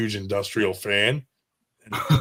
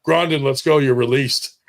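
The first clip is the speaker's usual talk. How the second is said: guard calling out; 3 semitones higher, 3 dB louder than usual. Retold or imitated. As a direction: bark it like a guard at the cell door. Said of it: "one of the C Os walks in and he's like".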